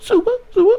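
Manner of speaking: squeaky little mouse voice. Mocking how a grown man says his gang call: a rapper's little mouse voice. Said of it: "'cause he says it like a little mouse".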